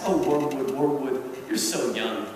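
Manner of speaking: a hint of a jaded senior devil savouring his advice; Screwtape's voice. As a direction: uncle Screwtape gently correcting his nephew, lightly voiced. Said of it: "And Screwtape reacts".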